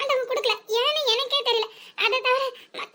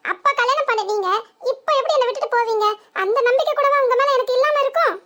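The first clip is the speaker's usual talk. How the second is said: loud pleading; 4 dB louder than usual. Acted. Wife pleading loudly with husband.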